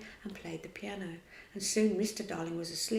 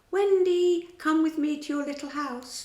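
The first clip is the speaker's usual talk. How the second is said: loud, higher call through the window; 8 semitones higher, 8 dB louder than usual. A narrator's reading. Peter at the window calling out to Wendy. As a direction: call her across the room. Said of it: "called out".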